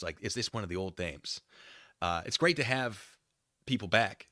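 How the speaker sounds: normal talking voice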